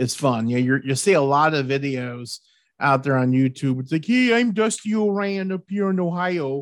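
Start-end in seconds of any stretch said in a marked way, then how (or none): 4.1-6.6 put-on Canadian accent. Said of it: "That's not how they talk from Ohio".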